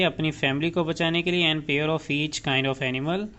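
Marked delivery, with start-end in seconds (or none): 1.5-3.3 slow dictation. Shown as a demonstration. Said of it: "dictating definition".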